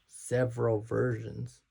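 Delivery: "several versions" said slowly, syllable by syllable; slowed down. Shown as a demonstration. Correcting his rushed speech, slowed "several versions". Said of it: "I'm speeding through my speech".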